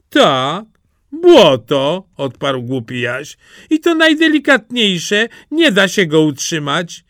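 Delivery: put-on high, eager country-boy voice; a naive lad dead set on a bride; eager simpleton Jaś. Jaś praises the mud.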